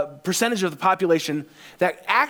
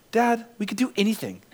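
higher, imitated kid's wonder; mildly acted excitement; fired-up son; 5 semitones higher than usual. Son telling dad the possibilities, excited. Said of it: "he was most excited about".

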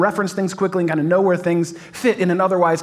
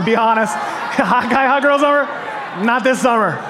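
calling out; 5 semitones higher than usual. Real, not acted. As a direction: shout the options like a game host. Calling out the quiz to crowd.

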